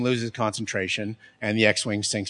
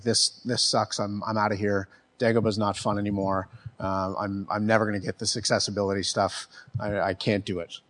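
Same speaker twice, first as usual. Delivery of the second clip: sulking; 2 semitones lower, 5 dB quieter than usual. Retold or imitated. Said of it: "he kinda sits there sulking".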